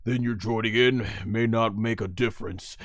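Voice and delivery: lightly put-on grave onlooker; a touch of stern doubt in the voice; Piccolo. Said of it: "And Piccolo's like".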